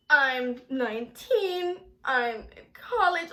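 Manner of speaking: slow, halting, forced-out answers; uncomfortable answering. Retold or imitated. Girl interviewed by date's mom, uncomfortable. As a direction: answer haltingly under questioning.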